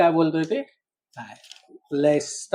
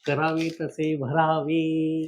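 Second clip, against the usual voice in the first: slow and spelled out; 6 dB quieter, slower than usual. Acted. Repeats proverb slowly for guesser.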